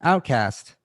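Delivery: hammed-up lament of the disgraced; mock dismay. Acts out being canceled on the spot.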